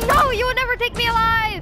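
hammy action-movie defiance; defiant hero. Pretend. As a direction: shout it like a cornered hero. Mock defiant movie line.

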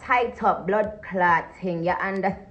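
loud, slow put-on Jamaican patois; fake Jamaican accent. Showing off a fake Jamaican accent to her fans. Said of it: "stop with that fake ass accent".

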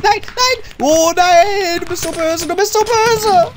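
high, whiny playful accusation; mock outrage. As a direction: wail like a wronged child. Accuses player who hit them.

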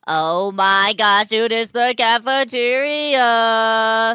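gasp, then slow, drawn-out awe; hammed-up amazement. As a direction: stretch every word in mock astonishment. Amazed on arriving upstairs.

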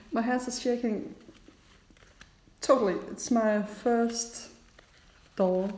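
trembling, excited and a bit breathless; nervous, shaky, thrilled voice; adrenaline shakes. Real, not acted.

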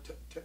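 quiet clipped t-t pecks for a duck call; T sound pecks. Shown as a demonstration. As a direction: tap out soft T sounds. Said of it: "peck a T sound".

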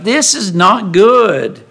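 acted stern verdict; firm disapproval. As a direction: pronounce it gravely, stretching each word. Jethro's disapproval, acted as quote.

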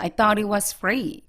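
"thought it" run together in a slow demo; linked reading. Shown as a demonstration. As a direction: join "thought" to "it" without a gap. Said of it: "연결해서". ("thought it"를 연결해서 읽기)

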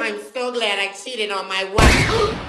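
slow, odd parrot mimicry. Parrot exposing the husband, slow parrot voice. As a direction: drawl it out like a talking parrot. Parrot repeating a line again.

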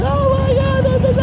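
very high held falsetto wail; squealed, sustained high notes; mock soprano. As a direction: suddenly leap into a comic soprano. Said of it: "You're gonna be singing soprano".

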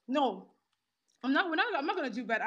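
fast, laughing refusal; laughing defiance. Real, not acted. Speaker refusing her critics, fast with a laugh.

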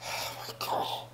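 slow, whispered exasperation; exasperated. Acted. Housemate fed up with Phil, exasperated whisper. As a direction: breathe it out in a soft whisper.

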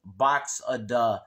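anthracite-brogue Pennsylvania accent, th turned to t; northeastern Pennsylvania accent. Shown as a demonstration. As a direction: say it like a coal-region Pennsylvanian. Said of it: "The accent from here usually sounds like".

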